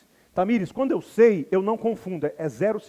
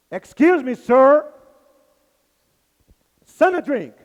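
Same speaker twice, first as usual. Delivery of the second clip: louder, higher, more insistent with each word; nervous attendant; 5 semitones higher, 10 dB louder, slower than usual. Retold or imitated. Attendant loses patience with a confused passenger, loud and high. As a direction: repeat it louder as if the passenger is deaf. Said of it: "o bichinho vai ficando nervoso".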